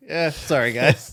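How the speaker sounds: high, loud, laughing sorry; laughing apology. Retold or imitated. Wrestler answering his fellow wrestler backstage, laughing apology. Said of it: "I was like".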